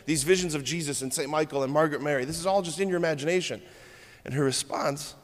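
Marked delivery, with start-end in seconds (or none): 0.1-3.6 accusing judges. Retold or imitated. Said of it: "And they said".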